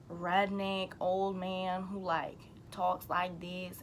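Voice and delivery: slow, lightly drawn-out country accent. Shown as a demonstration. A half-joking country accent for a vlog's redneck owner. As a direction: play a redneck old man in a mild Southern accent. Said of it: "I think I know how to do a country accent".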